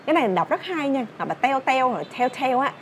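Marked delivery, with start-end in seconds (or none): 1.3-2.6 "tell" turned into Vietnamese "teo"; L-less Vietnamese-style "teo"; mispronounced tell. Shown as a demonstration. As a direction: say "teo" with a w-glide instead of L. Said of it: "Không có teo ở đây".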